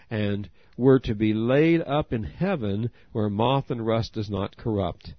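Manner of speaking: ordinary talk, nothing marked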